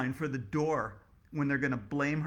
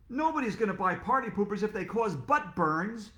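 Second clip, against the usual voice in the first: mild shout; 5 semitones higher, 4 dB louder than usual. Acted. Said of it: "shouted Mister Cooper".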